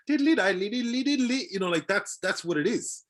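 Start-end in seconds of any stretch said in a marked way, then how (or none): 0.1-1.4 high, singsong diddly-Irish parody; mock a twee stage-Irish accent; stereotyped Irish accent. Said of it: "look at all Irish accents".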